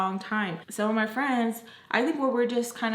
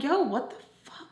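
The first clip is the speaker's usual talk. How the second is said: higher mimicked annoyance; annoyed friend; 5 semitones higher than usual. Friend reacting as she walks by, annoyed. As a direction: imitate someone annoyed, pitched up. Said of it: "so annoyed".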